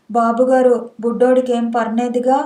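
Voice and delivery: ordinary delivery, nothing marked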